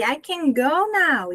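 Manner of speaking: "go" given the weight, slow and firm; slow steady "I can go now" with "go" strongest; stress on go. Shown as a demonstration. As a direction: lean on "go" and let "now" fall. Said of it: "O go é o forte".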